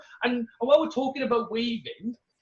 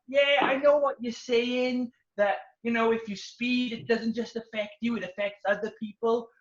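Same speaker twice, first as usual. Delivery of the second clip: know-it-all; 2 semitones higher than usual. Retold or imitated. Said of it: "He was like".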